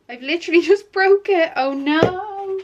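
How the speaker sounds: high, laughing oh-no; laughing oops. Real, not acted. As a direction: laugh at the mishap. Just broke the lid.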